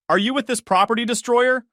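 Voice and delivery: high, loud challenge; sharp demand. Acted. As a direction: snap at the newcomer. Joyce accuses Haley.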